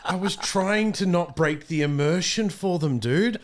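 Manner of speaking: loud, high, laughing mock complaint at his co-host; laughing mock scolding. Real, not acted. Scolding his co-host, laughing, for breaking camera immersion, loud and high. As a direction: tease him, laughing, for breaking the illusion.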